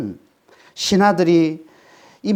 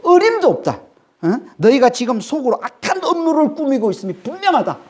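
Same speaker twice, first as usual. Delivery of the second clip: Pharaoh's angry rebuke; 4 semitones higher than usual. Acted. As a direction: thunder down at Moses like a furious king. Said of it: "바로가 그들에게 호통 줬다".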